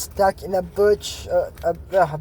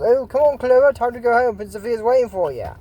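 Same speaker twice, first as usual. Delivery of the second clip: hearty coachman call; 5 semitones higher, 3 dB louder than usual. Retold or imitated. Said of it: "the coachman goes".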